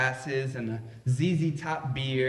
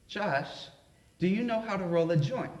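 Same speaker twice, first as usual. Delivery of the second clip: lightly voiced sweet little old lady, quick and innocent; 3 semitones higher than usual. Grandma asking Josh to roll a joint, mild sweet voice. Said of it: "in her sweet little Southern Baptist voice".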